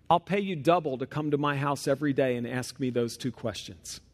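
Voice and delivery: a hint of a calm old rabbi. Rabbi answers quietly.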